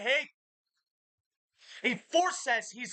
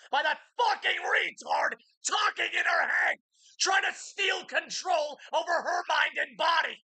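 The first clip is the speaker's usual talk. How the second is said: rising into a loud higher yell; angry shout; 6 semitones higher, 3 dB louder than usual. Real, not acted. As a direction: build from a hiss to a shout. Ranting about voice in head.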